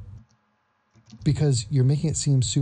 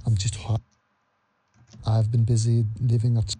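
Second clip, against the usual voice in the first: mock a heartbroken man in a failed Scottish accent; terrible Scottish accent; 3 semitones lower than usual. Mocking Francis in a terrible Scottish accent. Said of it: "Terrible accent".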